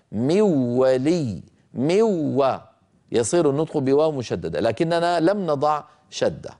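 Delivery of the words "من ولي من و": slow من ولي with a doubled waw and no nasal sound; wrong pronunciation demo. Shown as a demonstration. Teacher showing students the wrong doubled waw. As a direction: say من ولي as mawwali, dropping the ghunna. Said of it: "لكان النطق هكذا".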